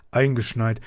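father cheering at being snowed in; cheerful call. Acted. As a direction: call it out gladly. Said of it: "rief er fröhlich".

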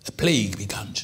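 whispered, barely voiced; hushed whisper. Preacher announcing the plague in a whisper. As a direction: drop to a whisper for the dread. Dramatic hushed turn in story.

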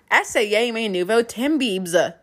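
slow, lightly put-on French accent; a hint of a bad French accent; imitating a singer's French. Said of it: "Justin Bieber's French".

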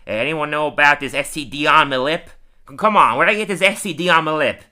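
mock-clueless character demanding answers; imitating Moe. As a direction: call it out, indignantly baffled. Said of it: "He just goes".

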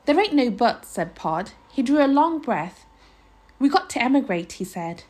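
measured read-aloud storytelling; story narration. A narrator's reading. Reader telling of a boy in a night-time house, story narration. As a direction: narrate with careful phrasing and pauses.

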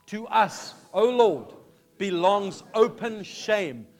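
slow, solemn scripture reading aloud; solemn prayer read slowly, each phrase weighted. Acted. Congregation reads Daniel's prayer aloud.

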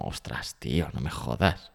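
muted, low mock protest; dismayed reaction. Brother reacts to sister moving to Miami, dismayed. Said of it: "fue como".

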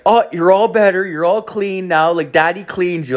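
high, sing-song parent voice; dad to child. Retold or imitated. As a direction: imitate a dad babying his daughter. Dad soothing little girl after cleaning.

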